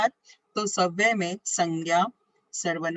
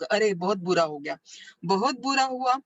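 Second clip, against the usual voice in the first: sorrowful exclamation, pitch rising on बुरा; mock dismay. Shown as a demonstration. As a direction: act out dismay at bad news, a touch of grief. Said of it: "यानी इससे से हमारा दुख प्रकट हो गया".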